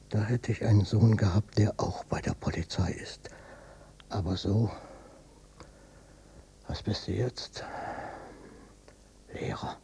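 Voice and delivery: bitter whisper; hushed, bitter longing; whispered regret. Acted. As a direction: breathe it out as a regret. Father's bitter wish, whispered.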